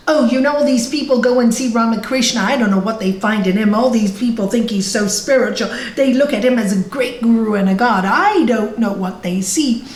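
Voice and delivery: lightly voiced, rattled-off complaint; quick, dismissive grumble in passing; grumbling boatman. Boatman scoffing to his passenger about the guru, lightly grumbling.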